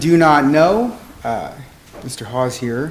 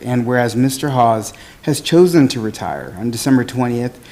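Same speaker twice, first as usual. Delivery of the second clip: teacher voice. Real, not acted. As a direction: project every word like a teacher. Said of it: "I'll use my teacher voice so everybody hears me enunciate".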